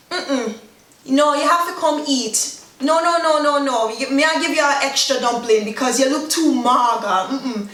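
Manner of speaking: lightly hammed-up fussing over someone; insistent fussing. Urging a skinny person to come eat, insistent. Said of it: "So you just be like".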